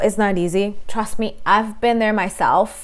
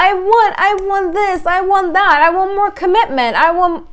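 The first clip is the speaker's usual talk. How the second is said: mock needy demand; 8 semitones higher than usual. Clingy partner demanding more.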